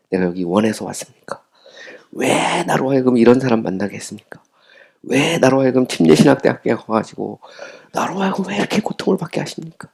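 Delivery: mock the believer whining at God, mildly; irritated complaint to God. Preacher voicing a believer's complaint to God, mildly irritated. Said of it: "막 짜증내면서".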